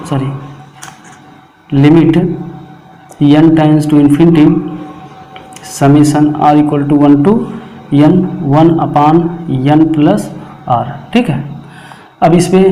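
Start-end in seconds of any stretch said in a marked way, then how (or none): 1.7-10.8 each term read out slowly with pauses; slow dictation. Acted. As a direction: dictate slowly so students can copy. (धीरे-धीरे रुककर लिखवाना)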